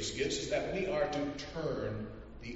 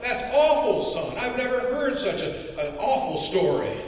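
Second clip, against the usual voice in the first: high, louder appalled voice; appalled census taker; 10 semitones higher, 6 dB louder than usual. Acted. Census taker consoling the boy, high and appalled. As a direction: sound beside yourself with shock.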